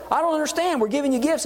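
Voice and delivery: high baffled whine; baffled protest. Retold or imitated. People protesting to God they gave gifts, high baffled whine. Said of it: "They're saying".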